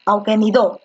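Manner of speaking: auquénido wrongly stressed as au-que-ni-DÓ; auquénido with the weight on the final syllable; stress shifted to the end. Shown as a demonstration. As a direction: lean on DO in auquénido. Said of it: "la fuerza de voz está en la antepenúltima".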